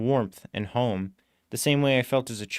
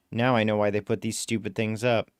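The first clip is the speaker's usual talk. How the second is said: ordinary delivery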